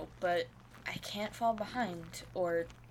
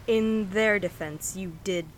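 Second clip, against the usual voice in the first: loud and pointed; 9 dB louder than usual. Acted. Pointed rebuke in an argument.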